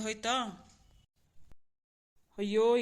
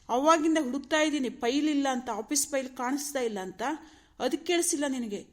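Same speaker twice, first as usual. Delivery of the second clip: exasperated, starting raised then easing; irritated scolding; 2 semitones higher than usual. Acted. Husband berates wife about the missing office file, irritated. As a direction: scold her for not listening. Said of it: "ಕೂಗಾಡ್ತಾ ಇದ್ದೀರಾ, ರೇಗಾಡ್ತಾ ಇದ್ದೀರಾ".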